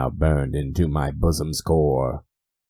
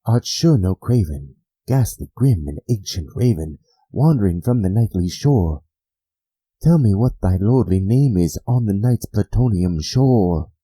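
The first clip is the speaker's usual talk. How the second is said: higher, louder challenge; bold address; 6 semitones higher, 5 dB louder than usual. Acted. The narrator boldly addresses the raven, higher and louder. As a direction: challenge the bird head-on.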